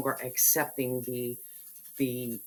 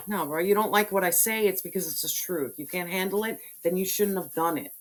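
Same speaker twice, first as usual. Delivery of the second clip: loud retort; 5 semitones higher, 4 dB louder than usual. Retold or imitated. Voicing herself confronting someone.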